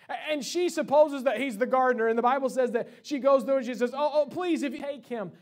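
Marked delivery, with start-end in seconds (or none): 3.9-5.3 urgent imploring, starting high and loud; acted pleading. Mary begging the supposed gardener, acted urgent plea. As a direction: beg with sudden urgency.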